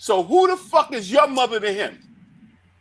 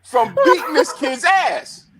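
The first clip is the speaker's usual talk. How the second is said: laughing; 6 semitones higher, 4 dB louder than usual. Real, not acted. Laughing while telling story.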